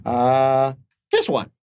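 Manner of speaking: small trader deciding after hesitation; high, hesitant little voice; little merchant character. Acted. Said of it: "then he goes".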